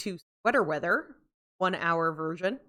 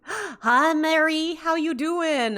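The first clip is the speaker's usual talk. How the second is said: bright, high, gasping hello; a gasp, then a delighted high hello; excited greeting; 8 semitones higher, 3 dB louder, much slower than usual. Real, not acted. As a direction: greet her like a long-lost friend. Excited greeting of new viewer.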